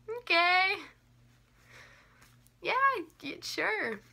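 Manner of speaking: high-pitched, halting mock agreement; uneasy humoring. Humoring a rambling customer.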